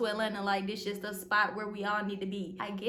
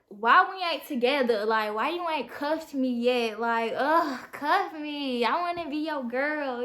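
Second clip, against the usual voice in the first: exasperated pleading; 2 semitones higher, 7 dB louder, slower than usual. Retold or imitated. Wishing M J would commit.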